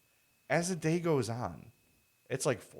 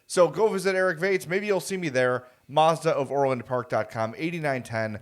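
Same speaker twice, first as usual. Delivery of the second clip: wrestling promo; 4 semitones higher, 4 dB louder than usual. Pretend.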